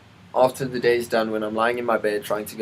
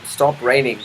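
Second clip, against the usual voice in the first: telling off the rain; 2 semitones higher, 5 dB louder than usual. Real, not acted.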